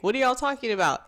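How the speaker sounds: high, puzzled question; clueless newcomer asking; confused ask. Retold or imitated.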